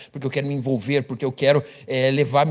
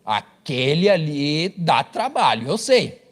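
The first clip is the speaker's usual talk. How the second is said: knowing aside; much slower than usual. Acted. Voicing a wife's aside.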